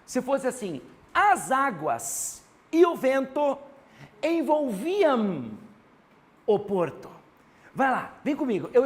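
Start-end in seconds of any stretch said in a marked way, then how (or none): 1.1-7.1 deliberate, drawn-out model sentence; slow example reading. Shown as a demonstration. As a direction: read it out in slow, separate chunks. Reads out rewritten example sentence slowly.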